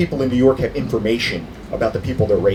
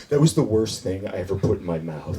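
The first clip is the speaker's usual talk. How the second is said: harsh judge; 5 semitones lower, 5 dB quieter than usual. Retold or imitated. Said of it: "the guy just going".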